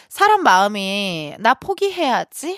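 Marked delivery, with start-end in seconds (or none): 1.4-2.6 resolve. Retold or imitated. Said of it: "하면은 포기가 되나요?".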